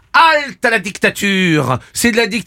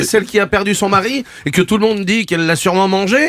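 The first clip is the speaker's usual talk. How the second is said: wild unhinged ranting. Acted. Comic rant at host.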